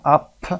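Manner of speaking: "up" with a short, clear UH; short UH sound. Shown as a demonstration. Teacher shows learners the short vowel, short UH sound. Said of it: "صدای آ رو داریم در ابتدا".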